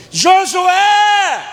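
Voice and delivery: put-on high, loud drawn-out yell for a child; mãe gritando. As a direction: bellow the name like a mother calling. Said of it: "A mãe faz assim". (grito de mãe chamando o filho)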